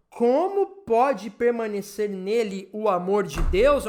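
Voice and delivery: measured, slow verse reading; scripture reading. Acted. Preacher reads First John to the congregation, measured scripture reading. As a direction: read it slowly, building to the closing question.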